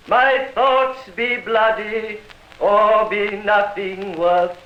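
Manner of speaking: slow, grand declaiming of verse; hammed-up Shakespeare recital; theatrical recitation. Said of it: "Reciting, for instance".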